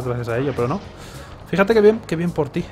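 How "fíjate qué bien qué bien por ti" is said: sarcastic. Real, not acted. Sarcastic jab at game partner.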